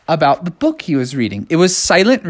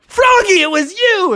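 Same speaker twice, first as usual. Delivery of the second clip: accusing teacher. Retold or imitated. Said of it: "the teacher was like".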